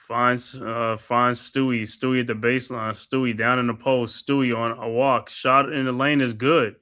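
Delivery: steady courtside commentator calling each pass; play-by-play call. Acted. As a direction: narrate the possession like a broadcaster. Calls the game play-by-play.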